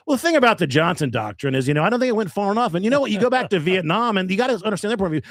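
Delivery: mock a pseudo-intellectual holding forth at a bar; pontificating douchey guy. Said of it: "he's just pontificating about whatever".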